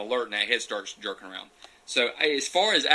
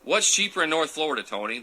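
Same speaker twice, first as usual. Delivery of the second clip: called-out question; 5 semitones higher than usual. Real, not acted. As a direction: call the question out to Tony. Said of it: "asks viewer directly".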